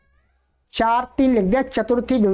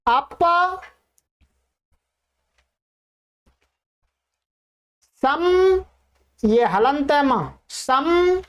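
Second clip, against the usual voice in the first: dictation. Shown as a demonstration. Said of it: "बाईस उपसर्गों को लिखिएगा क्रमानुसार".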